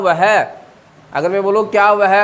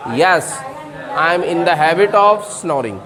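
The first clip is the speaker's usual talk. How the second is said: slow, careful teacher answer; slow model answer; 2 semitones lower, much slower than usual. Shown as a demonstration. Teacher models the yes answer slowly for students. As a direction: spell it out slowly. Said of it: "तो आप क्या बोलेंगे?".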